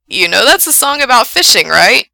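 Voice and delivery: loud, teasing question with a smile; smiling voice. A narrator's reading. Frank teases caller about his song, smile in the voice. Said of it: "It sounds like he's smiling".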